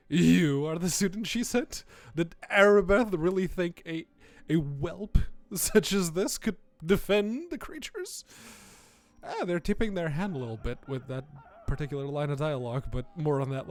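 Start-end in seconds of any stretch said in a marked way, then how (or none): 0.1-8.2 lightly voiced scornful cleric; a touch of haughty indignation; disdainful cleric, indignant. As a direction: scoff at the unworthy student. Voices the speaker reading game dialogue.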